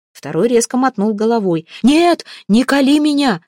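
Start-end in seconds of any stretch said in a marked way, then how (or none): 1.8-3.4 high, loud cry of refusal; frantic shout. A narrator's reading. Mamalai shouts at the spearmen not to stab, frantic. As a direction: yell to stop the blow. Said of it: "закричал Мамалай".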